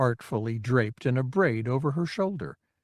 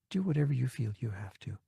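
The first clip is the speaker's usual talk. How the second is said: whispered plea; 9 dB quieter, faster than usual. Acted. Lara's soft holo message plea.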